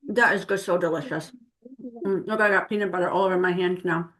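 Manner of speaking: talking while chewing; words round a bite of food; mouth full. Real, not acted. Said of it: "I'm gonna take a bite right now".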